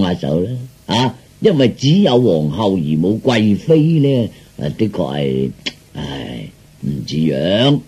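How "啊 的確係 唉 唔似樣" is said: low, soft sighing complaint; mock lament. Emperor laments to his daughter about lacking a concubine, dejected.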